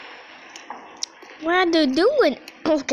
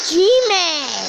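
louder and higher, startled shout; surprised yell; 5 semitones higher, 7 dB louder than usual. Real, not acted. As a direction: yell his name in shock. Sudden enemy appears, yells.

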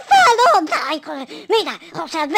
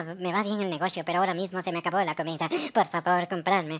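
low wheedling Pokéball seller; vendor voice; 4 semitones lower than usual. Acted. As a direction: beg him to buy like a hungry trader. Speaker voices a pushy vendor.

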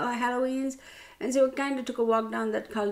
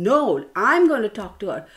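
retold anger; 6 dB louder than usual. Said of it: "I got mad at Mark too".

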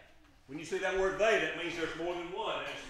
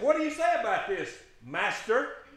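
mock challenging accusers; 3 semitones higher, 5 dB louder than usual. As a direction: throw the question like a trap. Pharisees questioning Jesus.

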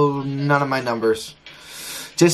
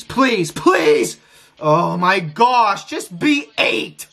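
desperate pleading; much slower than usual. Real, not acted. Streamer begging the wheel to land on eight, slow desperate plea.

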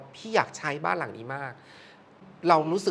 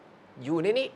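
very slow, hushed "อยู่ในนี้" with a rising end; quiet monk's verdict; much slower than usual. Retold or imitated. Monk telling the host the boy is in the photo, slow and hushed. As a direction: murmur it slowly like a monk. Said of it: "หลวงพ่อก็บอก".

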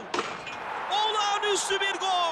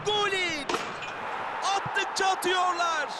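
excited commentator; 5 semitones higher, slower than usual. Acted. Another goal in football commentary.

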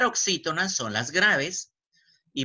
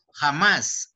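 "Jamás" said louder, leaning on "más"; acento en última sílaba; 5 dB louder than usual. Shown as a demonstration. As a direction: punch the final "más" in "Jamás". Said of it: "en más". ("Jamás" marcando con fuerza "más")

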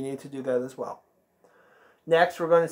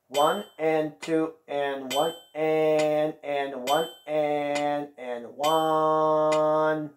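slow rhythm counting; much slower than usual. Shown as a demonstration. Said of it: "Let's try counting it again".

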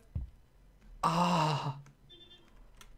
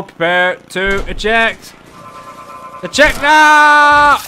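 mock pilot call; 6 dB louder than usual.

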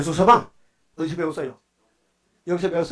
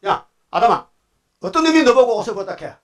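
higher, louder scolding demand; confronting God; 5 semitones higher, 3 dB louder than usual. Acted. God rounds on Adam about who told him, scolding. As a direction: call Adam out like a suspicious father.

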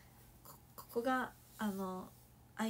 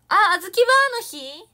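much louder, higher, sudden realization; surprised; 8 semitones higher, 20 dB louder than usual. Real, not acted. Suddenly realizing it is Azuki Bar Day, loud and high. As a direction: blurt it out, surprised. Surprised reading calendar comment.

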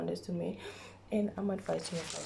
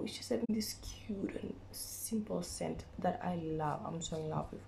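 talking through sore, swollen lips; words slurred by blistered lips. Real, not acted. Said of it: "my lips are swollen".

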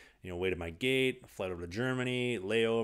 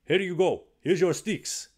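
mock cheerful handover; 9 semitones higher, 8 dB louder, slower than usual. Mocking team handing old sticks.

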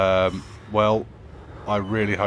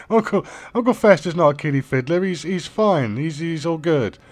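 laughing; 9 semitones higher, 5 dB louder than usual. Real, not acted. Laughing defending the character.

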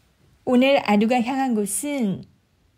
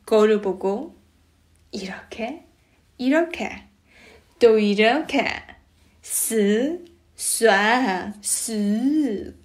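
infomercial; slower than usual. Acted. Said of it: "광고 속의 그처럼".

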